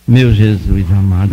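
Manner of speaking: low, slow cry to Jesus; clamor encenado. Retold or imitated. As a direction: draw out a low, heavy invocation. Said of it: "botei a boca no mundo". (clamor grave e arrastado, encenado)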